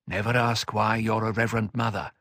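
steady elder counsel; calm older mentor. Acted. Odrade's voice, low and calm.

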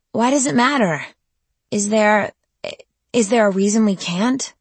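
high, loud desperate pleading; cornered and desperate. A narrator's reading. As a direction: beg him, voice climbing high. Pleading with her captor.

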